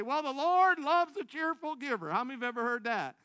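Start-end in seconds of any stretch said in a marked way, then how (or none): 0.0-2.1 quoting the churchgoers, higher and louder; mock-preachy proverb voice; pious saying. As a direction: recite it like a familiar church saying. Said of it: "I know some people say".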